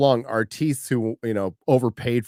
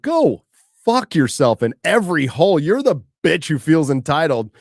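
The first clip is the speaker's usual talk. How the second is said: angry retort; 3 semitones higher, 3 dB louder than usual. Real, not acted.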